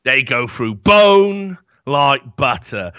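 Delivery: slow, menacing movie quote, lightly voiced; quoting Brick Top. Quoting a film gangster to the co-host, slow and mock menacing. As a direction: drawl it out like a gangster. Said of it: "And he goes".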